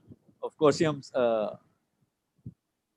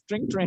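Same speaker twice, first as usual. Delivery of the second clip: phone ring; 3 semitones higher, much faster than usual. Shown as a demonstration. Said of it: "फोन उठाइए ma'am". (धीमी फ़ोन की घंटी की नकल)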